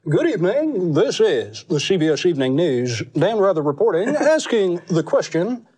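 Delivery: news anchor gravitas hammed up, breaking into a laugh; Dan Rather impression. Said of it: "The anchors".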